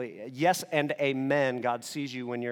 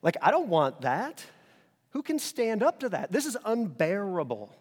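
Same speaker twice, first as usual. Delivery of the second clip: exasperated rant; 6 semitones higher, 4 dB louder than usual. Retold or imitated. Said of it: "He says".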